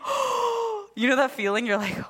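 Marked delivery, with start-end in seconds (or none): 0.0-0.9 shocked oh. Retold or imitated. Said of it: "and I'm like, gasps".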